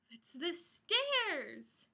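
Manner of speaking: slow, gasping amazement; gasp of surprise. Acted. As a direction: gasp it out like a big discovery. Parent reading, gasping discovery.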